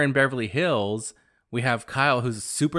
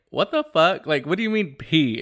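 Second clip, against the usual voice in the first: higher and louder, appalled disbelief; shocked outburst; 6 semitones higher, 5 dB louder than usual. Retold or imitated. Coworkers reacting to the bathtub confession, shocked outburst. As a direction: blurt it out, horrified.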